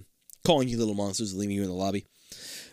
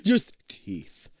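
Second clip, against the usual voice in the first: hushed, breathless Just teeth; spooky whisper about the teeth; 6 semitones higher than usual. Acted. Creepy whisper aside.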